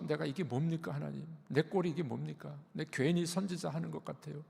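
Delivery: quiet mock complaint to God; lament to God. Jeremiah complaining to God, a quiet half-acted lament. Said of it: "하나님 앞에 탄식하는 겁니다".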